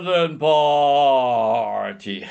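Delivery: slow sighing yawn. Shown as a demonstration. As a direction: stretch it with a yawn. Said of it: "I'll do it now".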